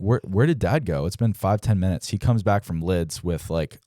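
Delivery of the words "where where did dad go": excited question. Retold or imitated. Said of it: "Well, I'm like".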